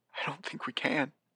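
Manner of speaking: soft gentle voice. The Postmaster answers a question about stopping a threat, softly.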